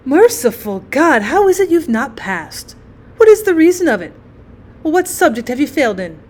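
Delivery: lightly voiced mother, aghast and demanding; dismayed mother. Mother questions her son about the failed exam, dismayed.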